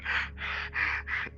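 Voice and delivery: huffed sobbing breaths without voice; mock a crying sound with breath; imitated crying breaths. Shown as a demonstration. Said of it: "he doesn't do".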